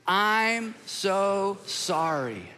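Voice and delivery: drawn out, unhurried apology; slow sincere apology. Shown as a demonstration. Pastor leading the congregation in a practice apology, slow. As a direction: lead the room through it slowly. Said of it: "let's practice this out loud".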